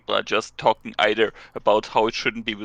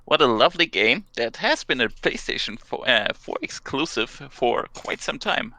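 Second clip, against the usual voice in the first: news anchor voice. Acted. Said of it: "I love your news anchor voice".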